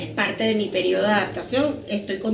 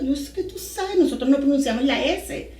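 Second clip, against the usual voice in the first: put-on Costa Rican accent. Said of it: "me hablaba como una tica".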